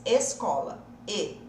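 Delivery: Escola with a closed ê at the start. Shown as a demonstration. Teacher gives a Portuguese model, closed ê. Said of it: "Esse E de escola".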